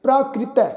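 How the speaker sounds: ਪ੍ਰਾਕ੍ਰਿਤੈ with "kri" run together; joined pronunciation. Shown as a demonstration. Teacher demonstrates the joined sihari, ਪ੍ਰਾਕ੍ਰਿਤੈ as "praa-kri-tai". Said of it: "ਲੱਗ ਕੇ ਉਚਾਰਨ ਹੋਏਗੀ".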